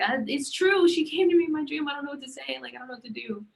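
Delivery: nervous rush that loses its nerve; telling her crying dad about the dream, flustered then fading; flustered explanation. Retold or imitated. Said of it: "I was just like".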